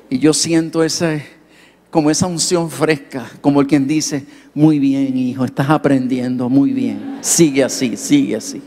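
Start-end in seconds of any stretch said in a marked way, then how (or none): 4.5-8.6 gentle God voice. Retold or imitated. God's voice praising him.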